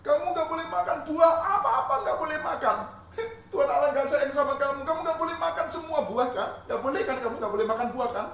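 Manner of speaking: high, loud teasing snake voice; sly tempting serpent. Acted. Serpent taunting Eve over the fruit, loud and sly. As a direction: goad her like a sneaky snake.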